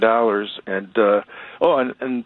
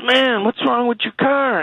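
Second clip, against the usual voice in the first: much higher, slow, put-on buddy voice; buddy's voice. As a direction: play the startled college buddy up high and drawn out.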